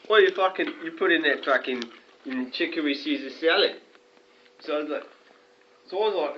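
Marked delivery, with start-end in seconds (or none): 0.1-3.7 angry retort. Retold or imitated. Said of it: "And he's like".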